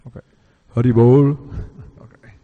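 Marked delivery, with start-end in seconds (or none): 0.7-1.4 loud call of Hari Bol to the room. Real, not acted. Speaker calling out to the temple audience, loud call.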